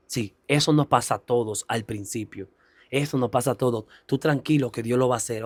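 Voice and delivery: gently calm a nervous first-time preacher; retold reassurance. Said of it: "Ella me motivó".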